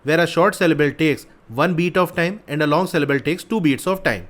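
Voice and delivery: reads each English word out very slowly; deliberate read-aloud of the problem. Shown as a demonstration. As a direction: spell out the question slowly for students.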